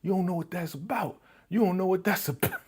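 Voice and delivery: high, pleading lovesick whine; mock lovesick boxer; lovesick whining. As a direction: beg them to understand heartbreak. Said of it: "he's like".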